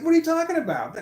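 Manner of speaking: very high, laughing incredulous retort; can't believe what he's hearing, laughing; laughing disbelief. Retold or imitated.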